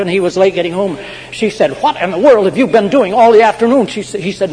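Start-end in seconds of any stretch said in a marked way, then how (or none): 1.8-3.9 acted high, loud maternal scolding; scolding mother. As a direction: play an exasperated mother, quick and high. Mother scolds late son, acted.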